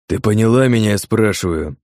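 a touch of a growl, understated. Acted. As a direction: press her for an answer, menacing. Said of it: "Прорычал он".

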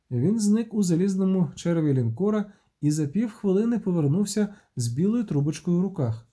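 plain reading voice

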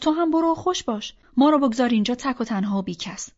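mock-plaintive, starting high; joking guilt-trip in a lifted voice. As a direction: tease with a put-on self-pitying complaint. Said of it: "زد به شوخی".

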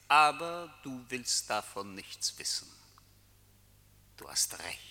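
breathy unvoiced whisper. Tempter whispers to Jean-Marc in his ear.

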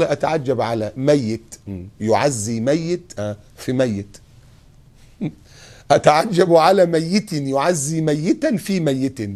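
slow, drawn-out phrase of astonishment; slow wondering. Acted. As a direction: marvel aloud, word by word. Quoting the pious man's wonder. (تعجب بطيء متأمل)

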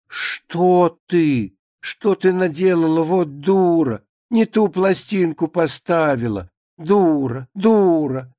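mildly exasperated mistress; indignant, emphatic telling-off; acted scolding. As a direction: scold the maid in dismay, drawing out the insult. Mistress scolds maid over wrong record.

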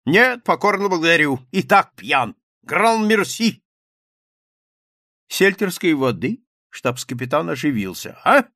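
high, loud bluff exclamation; exclaiming captain. A narrator's reading. Captain exclaims to the journalists, loud and high. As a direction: blurt it out like a brash officer. Rybnikov refuses wine, takes seltzer.

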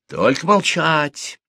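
high, slow caution; warning. A narrator's reading. Marya warns the women before telling a secret, warning. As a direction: swear them to silence. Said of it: "предупредила Марья".

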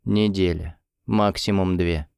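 zombie voice. A narrator's reading. Zombie Dasha speaking.

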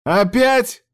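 stunned at the news; shocked outrage. A narrator's reading. Yuchi shocked by the attack news, outraged cry.

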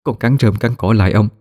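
pleading. Acted. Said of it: "mà giọng cầu xin".

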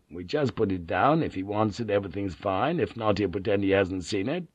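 soft, hushed and friendly; agreeable whisper. Acted. Old samurai softly suggests leaving a duck for the barbarian. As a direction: murmur it like a helpful secret. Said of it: "the old samurai whispered agreeably".

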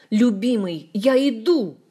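loud, ringing call to a lover; cry out. A narrator's reading. Ohard rushes to the door calling his beloved: loud cry. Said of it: "с криком".

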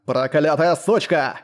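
slow, understated growl of rage; angry roar. A narrator's reading. Enraged brute curses the woman, a restrained roar. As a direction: curse her slowly, with contained fury. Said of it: "взревел Корд".

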